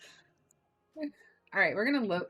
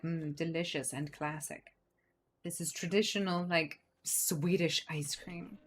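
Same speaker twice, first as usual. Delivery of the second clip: mock snob; 4 semitones lower than usual. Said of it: "people are gonna be like".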